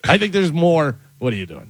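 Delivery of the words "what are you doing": low, soft mocking "What, what are you doing?"; sneering imitation of a rude stranger; mock rude question. Mocking rude travellers to a friend, low and soft.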